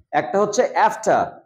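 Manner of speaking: "after" drawn out slowly; slow pronunciation. Shown as a demonstration. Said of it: "দুই ভাগে আমরা এটাকে উচ্চারণটা করব". (ধীরে "after" উচ্চারণ)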